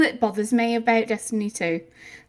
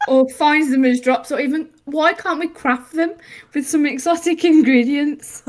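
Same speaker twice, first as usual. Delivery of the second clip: mock pitch. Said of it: "Can't even keep a straight face".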